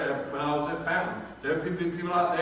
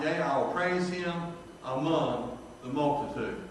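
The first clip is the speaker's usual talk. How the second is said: scripture reading. Acted. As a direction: read the verses like a preacher at the pulpit. Preacher reads psalm aloud.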